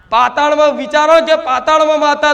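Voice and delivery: ordinary delivery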